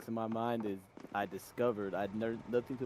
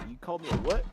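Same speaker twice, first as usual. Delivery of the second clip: high, loud indignant squawk; offended mock outrage; 8 semitones higher, 8 dB louder, faster than usual. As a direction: play the insulted character, outraged. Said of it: "upset by".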